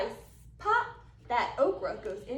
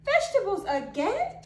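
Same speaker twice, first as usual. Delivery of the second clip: gator grumbling; 5 semitones higher, 6 dB louder than usual. Acted. Gator grumbling at his breakfast.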